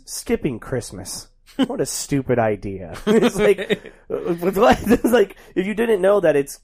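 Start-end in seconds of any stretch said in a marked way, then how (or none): 0.0-1.3 deadpan movie line. Retold or imitated. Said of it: "The last line of the movie is".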